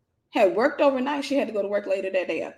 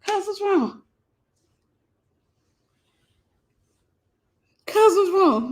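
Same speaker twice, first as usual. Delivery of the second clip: nonchalant question; 8 semitones higher, slower than usual. Retold or imitated. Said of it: "Just as calm".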